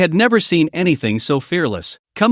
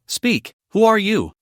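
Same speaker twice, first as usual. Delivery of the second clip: slow, cold demand, higher pitch; cold shout; 5 semitones higher than usual. A narrator's reading. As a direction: bark the question coldly and slowly. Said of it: "coldly approached ... and shouted".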